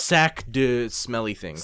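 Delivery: slow mock French accent; a hint of a hammed-up French accent. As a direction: drawl it like a fake French phrase. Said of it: "sorry for my French accent".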